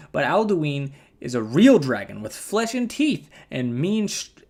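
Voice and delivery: put-on a country storyteller with a hick accent; folksy hick accent read. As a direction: spin the yarn like a backwoods Nord, hick accent. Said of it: "This kinda works with my accent".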